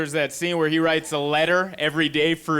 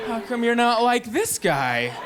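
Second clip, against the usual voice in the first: mock nagging; 6 semitones higher, slower than usual. Imitating women nagging their man.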